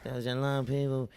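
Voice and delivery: pleading Dublin beggar; dublin accent. Acted. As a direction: beg for a fiver in Dublin accent. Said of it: "begging in a Dublin accent".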